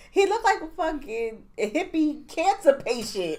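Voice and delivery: laughing mock yell of an insult; laughing shout. Friend retelling her reply to mom, laughing mock yell. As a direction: blurt it out through laughter. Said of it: "I was like".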